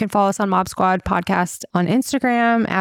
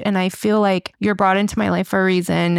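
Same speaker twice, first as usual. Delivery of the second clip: normal talking voice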